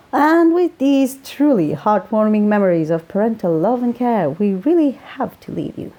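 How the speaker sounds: a hint of Welsh, slowing into the final pun; Welsh accent. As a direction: sign off the radio show in a light Welsh accent. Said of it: "His Welsh accent carried the pun".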